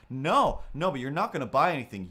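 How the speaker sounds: loud, quick mock protest; mock angry retort. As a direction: cut them off loudly, imitating an argument. Acted quarrel, greeter cuts them off.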